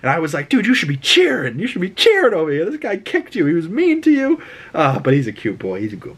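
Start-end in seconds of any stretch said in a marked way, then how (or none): 0.5-4.4 high, sing-song voice for a pet; talking to a dog. Retold or imitated. Talking to the sad dog, high pet-talk voice. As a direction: coo at the dog like a baby.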